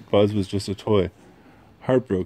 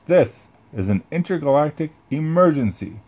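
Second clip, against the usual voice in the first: heroic space ranger; 7 semitones higher than usual. Acted. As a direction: proclaim it like a hero. Buzz addresses the aliens.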